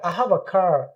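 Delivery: "car" ending on a long aah; non-rhotic "car"; silent R. Shown as a demonstration. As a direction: drop the R at the end of "car". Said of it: "आर silent हो जाएगा".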